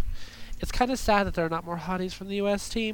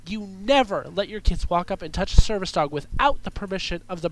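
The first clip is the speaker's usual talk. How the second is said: angry rant. Real, not acted. Host ranting at parents about service dogs, angry and stern. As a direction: chew out careless parents, building to a stern finish. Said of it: "I just get so angry sometimes".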